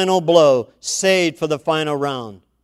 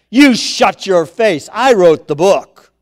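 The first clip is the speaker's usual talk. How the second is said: stern rebuke; 4 semitones higher, 9 dB louder than usual. Acted. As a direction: put Satan in his place. God rebukes Satan.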